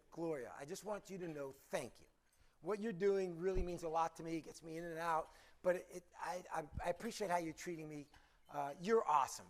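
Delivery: low, soft, earnest voice; sincere thanks. Acted. Customer thanking the counter clerk, softly sincere. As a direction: thank them quietly and haltingly.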